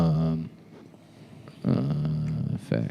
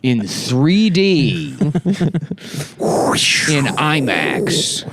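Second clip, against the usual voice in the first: slow stretched trailer announcer; movie trailer voice; 4 semitones higher, much slower than usual. Acted. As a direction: drag out each word like a trailer.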